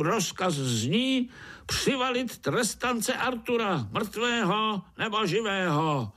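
very high squeaky commander voice; ant overseer. Acted. Overseer ordering the black ants out, high commanding voice. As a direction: bark orders to the troops.

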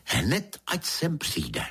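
high-pitched exclaimed command; cried out. A narrator's reading. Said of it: "vykřikla paní". (zvolání vyšším hlasem)

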